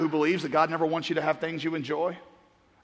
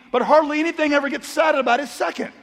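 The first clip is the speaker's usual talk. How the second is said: raised, higher preaching push; preaching emphasis; 7 semitones higher, 3 dB louder than usual. Real, not acted. Pastor pressing the congregation, raised preaching voice. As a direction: drive the point home loud.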